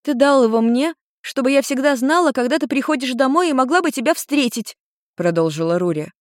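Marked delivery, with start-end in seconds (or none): 0.0-4.8 put-on higher girl's voice, hopeful; girl reminding. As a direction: jog his memory.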